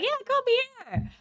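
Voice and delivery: high, slow, sugary mock welcome; exaggerated high-pitched invitation. Mock Austria welcoming South Tyroleans.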